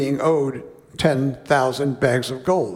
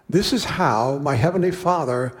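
measured, unhurried Bible reading; slowing on the king's sentence; scripture reading. Acted. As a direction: read the parable to the congregation. Reads Jesus' words aloud.

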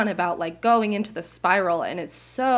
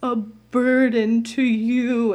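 retold tearful plea; 3 semitones higher, 5 dB louder, slower than usual. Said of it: "in full tears, crying to him".

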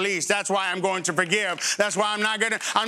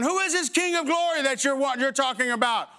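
mocking skeptic; 4 semitones higher than usual. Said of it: "All of the Black Lives Matter is going".

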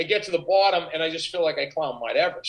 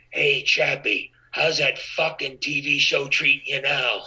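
bullhorn taunt; 3 semitones lower, slower than usual. Retold or imitated. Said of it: "I hear out of a bullhorn".

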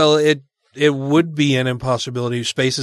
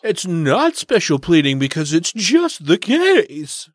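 slow, whiny debater voice; William Lane Craig; 3 semitones higher, much slower than usual. Retold or imitated. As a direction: drag it out like a whiny apologist. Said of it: "in his whiny little voice".

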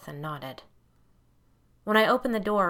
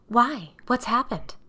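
sharp rising demand, louder; 5 semitones higher, 5 dB louder, slower than usual. A narrator's reading. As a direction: press her for an answer, alarmed. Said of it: "I demanded, my voice raising".

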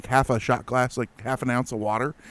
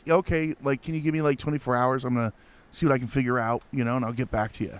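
lightly acted casual, offhand reply; nonchalant; 4 dB quieter, faster than usual. Emailed guy replying to a worried client, nonchalant. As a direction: toss it off quickly, trailing softer. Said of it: "he's just all nonchalant".

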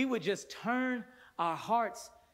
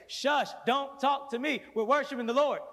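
shushing worshipper; 8 semitones higher, 6 dB louder than usual. Retold or imitated. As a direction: shoo them off mid-worship. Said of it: "people will say".

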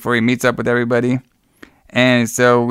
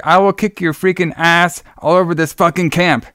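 angry threat; 6 semitones higher than usual. Retold or imitated. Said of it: "my favorite line was like".

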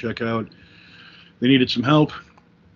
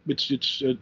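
fumbling for words; 3 dB quieter than usual. Retold or imitated. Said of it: "And I'm like".

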